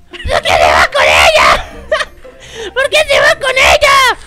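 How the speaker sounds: hammed-up crying shout; mock wail. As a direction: wail it like a jealous child.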